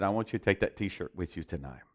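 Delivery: low, soft, calm divine voice; Holy Spirit's voice. Retold or imitated. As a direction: speak as a quiet voice from God. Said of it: "and the Holy Spirit said".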